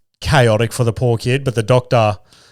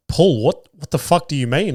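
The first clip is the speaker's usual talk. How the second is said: retold baffled outburst, pitched up; higher-pitched mock bewilderment; incredulous; 5 semitones higher than usual. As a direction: act out alarmed disbelief. Acts out his alarmed reaction.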